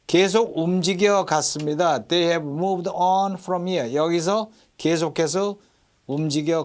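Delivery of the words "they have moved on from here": "on" drawn out and stressed. Shown as a demonstration. Teacher models the verse for students, stress on "on". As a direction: slowly, lean on the word "on". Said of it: "on에 강세가 들어가요".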